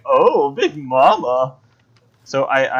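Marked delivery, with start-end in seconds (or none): 0.1-1.6 slow coy blushing voice; bashful Vixie. Retold or imitated. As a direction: say it shyly flattered. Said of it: "She's like".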